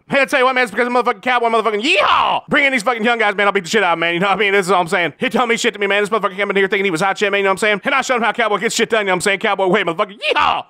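hollering redneck fighter; rowdy cowboy. Acted. Fighter hyping a fight to reporters, rowdy cowboy hollers. Cowboy persona at press conference.

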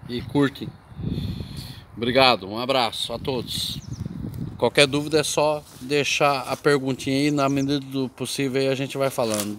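speaking with cheeks squeezed by helmet; squished cheeks. Real, not acted. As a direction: talk through squashed cheeks. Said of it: "esse negócio apertando as bochechas aqui não dá certo".

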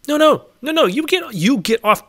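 shrill panicked no, no, no; high alarmed shout. Real, not acted. Shouting at mobs trampling the crops, panicked. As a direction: yell at the mobs to get off.

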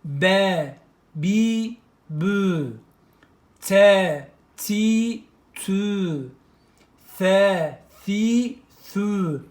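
"B, bi, bü" each syllable sounded out loud and crisp; teacher sounding out "fe, fi, fü"; syllable drill. Shown as a demonstration. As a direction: drill "te, ti, tü" syllable by syllable, punching the first. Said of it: "Ü harekelerini işleyelim".

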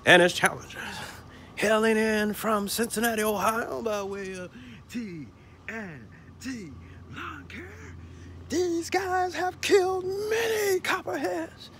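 slow, building announcer call; lightly hammed wrestling introduction; ring announcer. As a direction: announce the challengers with big pauses. Announcing challengers wrestling style.

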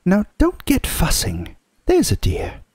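very high motherly character voice; Missus Beaver, soothing. A narrator's reading. Mrs Beaver settling a worried Susan, unruffled. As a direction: hush the worry in a high, practical voice. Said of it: "said Missus Beaver".

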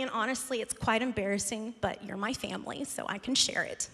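quiet sincere confession to the congregation; confiding. Real, not acted. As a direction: let them in on a secret. Confiding embarrassing story to congregation.

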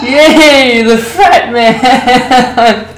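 slow, laughing cheer; drawn-out happy cheer. Real, not acted. Cheering the fat man.

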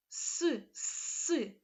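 «С» said hard, not softened; hard s demo. Shown as a demonstration. Teacher showing children the hard s sound. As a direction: give a firm, hard «с». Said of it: "приголосним твердим".

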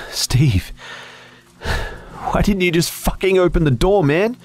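high, strained angry outburst; upset rebuke. A narrator's reading. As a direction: demand an answer, worked up. Angry rebuke after escaping the tunnel.

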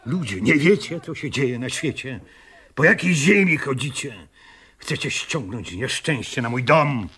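high, strained scolding; scolding the dancers who ignore the danger; anguished rebuke. Acted. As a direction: shake them awake, pitch up. Man scolds the ignorant crowd.

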